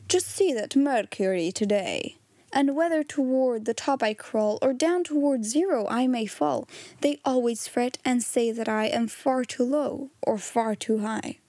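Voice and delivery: measured, rhythmic plaintive verse; poem recitation. A narrator's reading. Mercury complaining about people, measured poem recitation. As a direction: recite it with deliberate metre.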